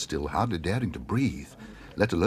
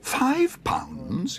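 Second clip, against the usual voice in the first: much higher, shocked little bear; startled exclaim; 14 semitones higher than usual. Acted. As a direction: gasp out the price in disbelief. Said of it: "exclaimed Paddington".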